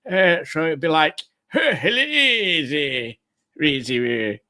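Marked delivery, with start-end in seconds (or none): 1.5-4.4 slow, drawn-out mock French greeting; hammed-up French accent, stretched out. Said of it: "she says it in a French accent".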